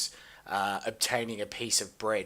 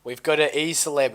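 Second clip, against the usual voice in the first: hype announcer; 4 semitones higher, 6 dB louder than usual. Acted. Hyping a guest.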